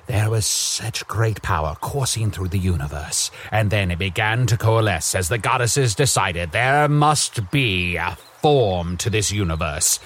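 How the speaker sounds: grand, unhurried storyteller opening a fantasy tale; lore narration. Acted. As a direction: intone it like an ancient legend. Narrates the lore of the magic world.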